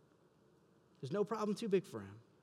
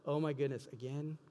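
mock exasperation. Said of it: "He doesn't go".

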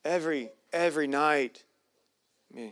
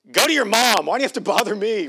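annoyed dad brush-off; 3 semitones higher, 4 dB louder, faster than usual. Retold or imitated. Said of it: "a loving father would go".

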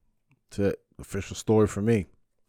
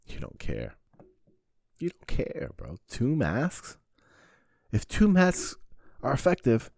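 higher, incredulous mockery of a two-mask wearer; mocking scold; 6 semitones higher than usual. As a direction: scoff at them. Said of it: "I'm like".

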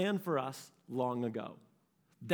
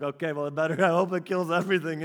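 wry resignation; 5 dB louder, faster than usual. Retold or imitated. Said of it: "I'm like".

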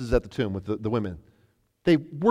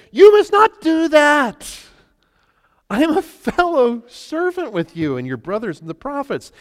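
booming angel; 9 semitones higher, 8 dB louder, slower than usual. Acted. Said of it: "But he said".

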